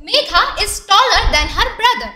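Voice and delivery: very slow, word by word example sentence; slow reading aloud. Shown as a demonstration. Teacher reading an example sentence to pupils, very slow. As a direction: spell it out slowly for the class. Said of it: "চলো তোমরা প্রথমে এই তিনটি বাক্য পড়ো তো".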